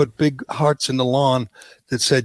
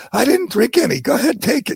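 mock president; 8 semitones higher than usual. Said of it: "He says".

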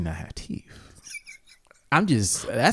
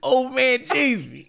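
whisper; 13 semitones higher, 5 dB louder, slower than usual. Pretend. Mock name, whispered.

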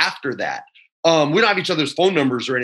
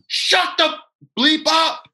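high-pitched, strained yell; retold yell; 13 semitones higher, slower than usual. Player snapping back at the batter's dad, retold yell. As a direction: yell it back like you mean it. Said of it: "I literally yell".

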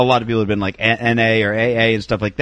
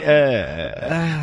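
snooty eh noise; 3 dB quieter than usual. Retold or imitated. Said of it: "Whatever that noise is".

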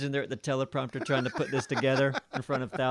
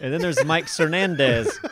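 laughing; 3 semitones higher, 6 dB louder than usual. Real, not acted. Reading names, laughing.

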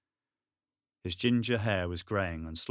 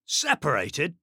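high, rising disbelieving echo; incredulous; 7 semitones higher, 6 dB louder, slower than usual. Acted. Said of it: "Denny was incredulous".

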